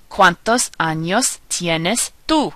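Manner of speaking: slow, measured Spanish model sentence; slow teacher's rhyme for learners to copy; pronunciation demo. Shown as a demonstration. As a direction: spell out each vowel sound slowly. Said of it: "I'll say it again and then give you a moment".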